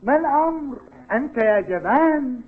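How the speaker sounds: high sneering call of coward; taunting. Acted. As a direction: rival goading the captain, mocking. Rival calls him a coward.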